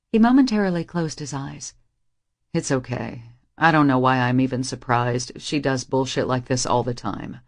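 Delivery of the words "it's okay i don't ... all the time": tired of his mother's games; a hint of a deeper, weary young man; resigned Reese. A narrator's reading.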